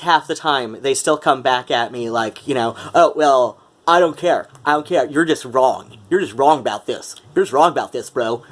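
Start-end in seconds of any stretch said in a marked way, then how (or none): 2.9-8.4 lightly voiced dismissive bro; dudebro voice. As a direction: brush him off like a stubborn dudebro. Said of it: "humiliating myself with that voice".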